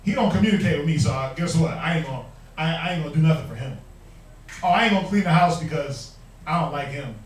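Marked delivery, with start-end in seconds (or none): 4.6-7.1 proud refusal. Retold or imitated. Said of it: "we'll say it proudly".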